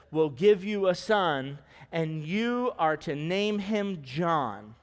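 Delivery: slow, weighty reading of the passage; solemn slow scripture reading. Acted. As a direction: read the verses slowly with weight.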